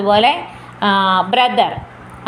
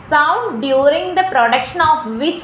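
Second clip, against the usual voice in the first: slow, word-by-word dictation pace; much slower than usual. Shown as a demonstration. Teacher slowly dictates the diphthong definition to students. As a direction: read it out slowly so students can write it down.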